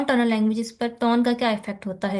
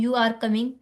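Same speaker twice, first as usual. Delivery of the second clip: "You are coming" with the pitch falling at the end, as a statement; a settled statement, the tune falling on "coming"; much slower than usual. Shown as a demonstration. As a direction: let "coming" drop down. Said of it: "एक falling tone है".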